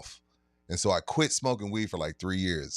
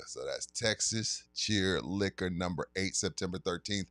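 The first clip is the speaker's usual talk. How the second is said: sponsor ad read. Acted. Announcing the liquor store signing to listeners, hyped ad read. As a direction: pitch the event like a radio spot.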